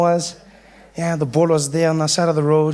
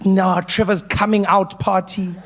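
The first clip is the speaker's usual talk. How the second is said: reading the banner; slower than usual. Retold or imitated. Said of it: "My mom put up a banner".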